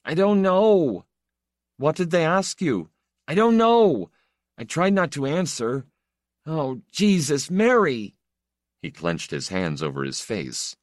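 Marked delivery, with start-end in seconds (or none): 0.0-8.1 put-on a terrified boy weeping in his cell; sobbing despair. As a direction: fight the tears and lose. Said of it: "who was still crying".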